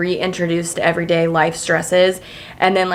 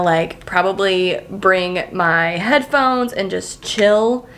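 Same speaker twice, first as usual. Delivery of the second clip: ordinary delivery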